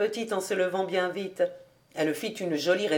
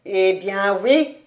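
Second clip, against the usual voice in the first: slow, louder retort; old rabbi's raised voice; indignant exclamation; 5 dB louder, slower than usual. A narrator's reading. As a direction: exclaim it defiantly, drawn out. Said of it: "s'écria le vieux rébé".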